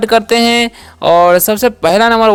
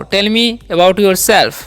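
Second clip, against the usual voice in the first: slow example sentence; much slower than usual. Shown as a demonstration. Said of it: "अपने बारे में मुझे बताओ".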